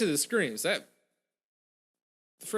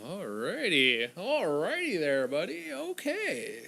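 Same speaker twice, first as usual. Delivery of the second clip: sing-song; 3 semitones higher, slower than usual. Real, not acted. Sing-song reaction to credits.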